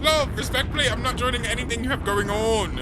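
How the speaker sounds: loud-ish, high, insistent decline; emphatic refusal. Real, not acted. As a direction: pitch it high, a step below shouting. Rewording the refusal as respectful.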